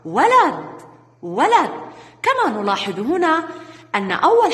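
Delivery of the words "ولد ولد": put-on slow, clear model word for children; model reading. Shown as a demonstration. Teacher modelling ولد for young pupils, clear and slow. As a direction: read ولد slowly and clearly, every letter sounded. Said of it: "الكلمة الأولى".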